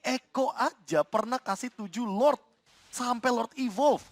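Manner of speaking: ordinary talk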